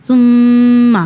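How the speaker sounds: ثم with a held, doubled میم; doubled mim. Shown as a demonstration. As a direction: press and hold the شدہ on ثم. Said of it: "میم مشتدد کا قانون آ گیا".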